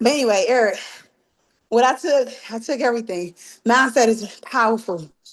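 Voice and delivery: winded, out-of-breath speech, puffing through the words. A participant working out during the call responds to the host, out of breath. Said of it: "I'm currently working out right now, so I'm winded".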